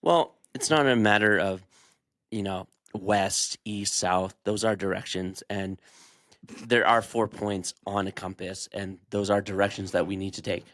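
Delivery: a hint of a droning prime minister; Carney's typical answer. Playing Carney dodging the direction question. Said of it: "you give the Mark Carney's typical answer".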